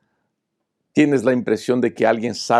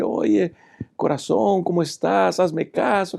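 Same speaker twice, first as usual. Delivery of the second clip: mock flirting; 8 semitones higher, slower than usual. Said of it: "así a jugar con ella, a decir".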